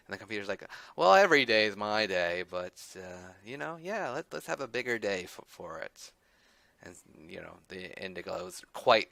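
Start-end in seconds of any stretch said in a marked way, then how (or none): 1.0-6.1 lightly voiced computer, louder at first; a hint of a cheerful machine; louder, slightly higher computer chatter.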